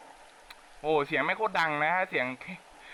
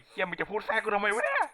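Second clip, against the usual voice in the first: pitched up, half-joking snap at the interruption; mock annoyed outburst; 6 semitones higher than usual. Real, not acted. Gamer scolds the intro song for interrupting, mock annoyed. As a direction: scold the song for cutting in, raised and playful. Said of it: "ไหนที่มันจะพูดแทรกกูทำไมวะเนี่ย".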